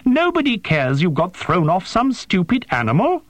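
high-pitched exasperated protest; yelping. A narrator's reading. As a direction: dismiss it in a high, agitated yelp. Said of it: "Tursono yelped".

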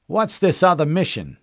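high, suspicious question. Acted. Locklear questioning the officers about another mission, suspicious. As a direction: ask as if something's been hidden. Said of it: "his voice suspicious".

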